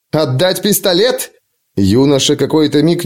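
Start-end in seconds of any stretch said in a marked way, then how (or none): 0.1-1.3 high, slow, rising disbelief; incredulous question. A narrator's reading. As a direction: echo the demand in disbelief. Prince incredulous at bodyguard's demand.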